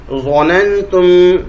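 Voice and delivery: ظننتم drawn out slowly, each syllable clear. Shown as a demonstration. Teacher to students, modelling ظننتم slowly for recitation. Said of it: "ہجے ایسے کریں گے".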